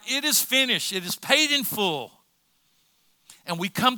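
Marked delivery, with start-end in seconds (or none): 0.1-2.1 mild preacher's cry, pitched up; raised, emphatic declaration in a preacher's acted quote. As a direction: proclaim it as a cry from the cross. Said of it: "He cried out".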